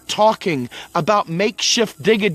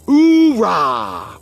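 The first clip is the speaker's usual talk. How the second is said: mock cheer; 2 semitones lower, 4 dB louder than usual.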